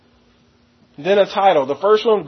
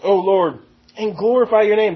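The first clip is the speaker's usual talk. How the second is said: slow rhetorical question; 3 semitones higher than usual. Shown as a demonstration. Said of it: "Who's gonna compare".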